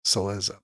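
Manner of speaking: "Cillizza" stressed on the second syllable, cil-LIZ-za. Shown as a demonstration. Host settling on a guess at the name, second syllable stressed. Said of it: "I think it's".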